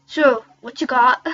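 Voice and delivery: drawn-out, loud put-on Irish; Irish accent retry. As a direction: work harder at the Irish accent. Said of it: "I have to solve this accent".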